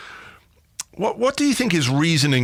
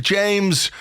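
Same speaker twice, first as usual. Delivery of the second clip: normal talking voice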